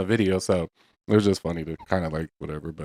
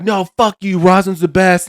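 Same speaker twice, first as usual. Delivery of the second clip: higher, raised-voice pretend argument; mock outraged retort; 8 semitones higher, 4 dB louder, slower than usual. Imitating commenters arguing which product is better, mock outrage. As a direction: argue it like an indignant fan. Acting out expected angry comments.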